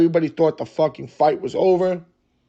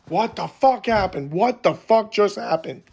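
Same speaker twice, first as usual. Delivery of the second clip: higher-pitched mock scream at ordinary volume; retold scream; 5 semitones higher than usual. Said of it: "I'm screaming".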